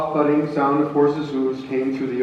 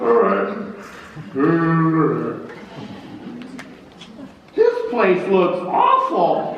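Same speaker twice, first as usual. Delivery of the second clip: groggy general; 3 semitones higher, slower than usual. Acted. Grant rising, yawning.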